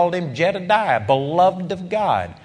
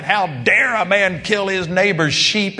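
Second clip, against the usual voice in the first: mock yell; 5 semitones higher than usual. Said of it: "here he is yelling".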